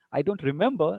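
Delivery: "remember" dipping on "re", lifted on "member"; hesitant answer, voice lifting within "remember"; fall to rise. Shown as a demonstration. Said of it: "re pe falling tone".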